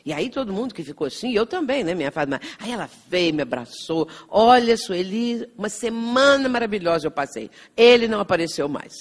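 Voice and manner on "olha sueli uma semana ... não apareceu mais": imitating her excited good news, louder; raised, emphatic delivery of happy news; excited retelling. Retells excited woman arriving with news. (imitando uma mulher empolgada)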